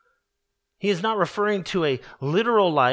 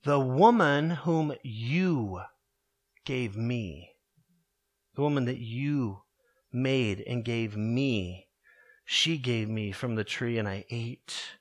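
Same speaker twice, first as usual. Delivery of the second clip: Adam making excuses; 6 semitones lower, 4 dB quieter than usual. Acted. Adam excusing himself to God, lower and softer.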